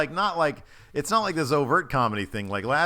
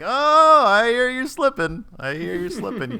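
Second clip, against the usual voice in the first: high mock yell in a British accent, easing off; heated actor losing his American accent into British; British accent slipping through; 10 semitones higher, 6 dB louder than usual. British actor yelling at his lieutenant, high mock-British outburst. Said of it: "when he starts yelling at his lieutenant".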